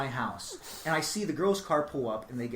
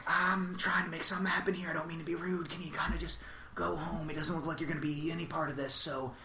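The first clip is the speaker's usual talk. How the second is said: whispered plea; 2 semitones higher, 6 dB quieter than usual. Retold or imitated. To the special friend at the bar, a hushed whisper. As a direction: keep it secret and whisper it. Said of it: "I was like".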